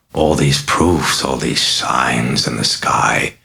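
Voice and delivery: a mocking, sinister possessed girl, purring; a lightly voiced demon, amused and taunting; sly demon voice. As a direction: toy with the priest, silky and sly.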